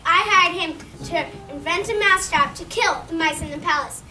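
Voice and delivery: loud, furious royal voice; angry king. Acted. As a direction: rage at the inventor. The king rages at the inventor.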